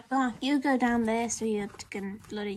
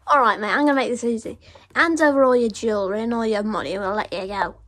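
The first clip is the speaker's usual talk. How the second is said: put-on British accent; 7 dB louder than usual. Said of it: "Accent's weird, dude".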